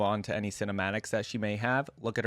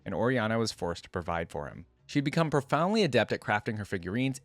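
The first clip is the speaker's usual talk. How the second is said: story narration. A narrator's reading. YouTuber reading Oriana's biography to viewers, story narration. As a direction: clear read-aloud biography voice. Reads the champion's story aloud.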